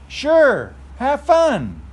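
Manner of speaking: piggy voice. Acted.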